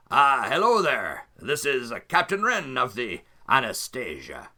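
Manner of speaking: a hint of a pirate captain purring hello; rival captain Ren. GM as Captain Ren hailing Anselm's ship, lightly voiced smug.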